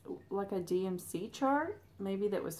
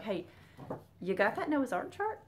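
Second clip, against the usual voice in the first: imitating a friend; 3 semitones higher than usual. Mimicking a friend asking late.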